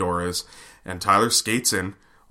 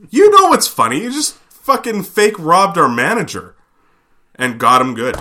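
teasing; 7 semitones higher, 6 dB louder than usual. Retold or imitated. Teasing retort, loud and high.

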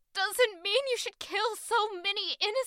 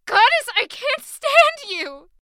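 angry; 4 semitones higher, 8 dB louder than usual. Acted. Quarrel outburst.

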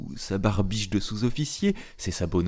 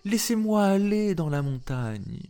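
higher pleading goat voice; pleading little goat; 10 semitones higher than usual. Acted. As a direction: beg like a small restless goat. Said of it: "lui dit dans son patois".

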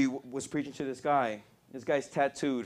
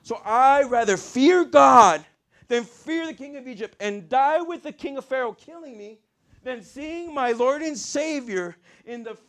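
fervent preaching; 9 semitones higher, 5 dB louder than usual. Acted. Preaches in an imagined voice.

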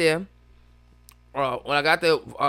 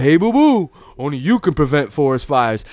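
bear mascot voice; 3 semitones lower, 4 dB louder than usual. Retold or imitated.

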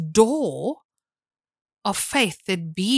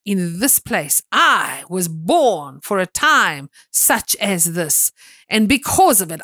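louder, proclaiming faith declaration; bold declaration; 4 dB louder than usual. Retold or imitated. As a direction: declare it boldly like a vow. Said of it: "walked in and said".

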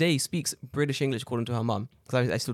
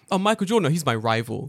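mocking boast; 5 dB louder than usual. Mocking the teacher's inflated rivalry claim, mock boast. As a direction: puff it up like a bragging fool. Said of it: "Oh, there are rivals".

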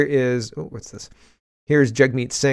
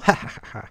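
mild cackle. Pretend. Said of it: "a mild cackle".

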